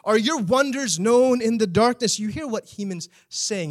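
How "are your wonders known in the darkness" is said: higher mocking questions to God; preacher voicing the psalmist's sarcastic questions; sarcastic challenge. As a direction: needle God with pointed questions. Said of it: "He's almost speaking sarcastically".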